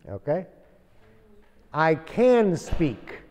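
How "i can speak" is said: very slow, "can" stressed and falling; a teacher slowly modelling a modal verb; slow example. Shown as a demonstration. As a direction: spell out "I can speak" word by word. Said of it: "Verbo defectivo".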